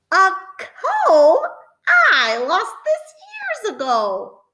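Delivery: a high chuckle of discovery; delighted surprise. Acted. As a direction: laugh with happy surprise. Witch finds old comb.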